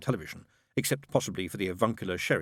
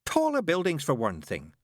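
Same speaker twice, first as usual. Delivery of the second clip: desperate nun; 7 semitones higher than usual. A narrator's reading. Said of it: "said Sister Mary desperately".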